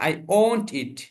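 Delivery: won't with a clear o sound, not want. Shown as a demonstration. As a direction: say won't as wont, never want. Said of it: "I want হবে না".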